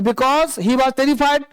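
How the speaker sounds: slowed on terrified; unhurried reading demo. Shown as a demonstration. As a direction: stretch out terrified for the class. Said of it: "टेरिफाइंग".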